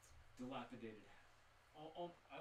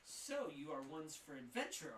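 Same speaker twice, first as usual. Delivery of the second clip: shopkeeper; 4 semitones higher, 4 dB louder than usual. Acted. Shopkeeper sizing them up.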